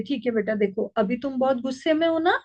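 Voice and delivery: put-on calm an angry child tenderly; lovingly. Shown as a demonstration. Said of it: "प्यार से बोलिए". (गुस्साए बच्चे से माँ का प्यार भरा, शांत स्वर)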